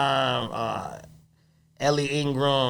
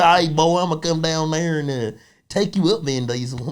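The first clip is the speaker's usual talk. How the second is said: imitated movie-tough Southern accent; 2 semitones higher than usual. Comic mimicking an action hero's old character, Southern accent. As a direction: put on a Southern lawman's voice. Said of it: "He had that Southern accent".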